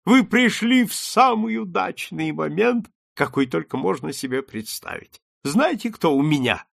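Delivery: bursting to share a secret; ardent. A narrator's reading. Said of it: "пылкий джентльмен". (пылко и взволнованно)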